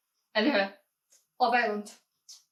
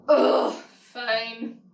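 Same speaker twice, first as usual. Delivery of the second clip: rolling eyes; 3 dB louder than usual. Acted. Grudgingly agrees to say intro.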